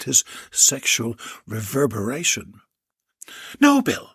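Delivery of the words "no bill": high, loud sharp command; barked order. Acted. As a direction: bark it at him. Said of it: "Doctor Stood barked".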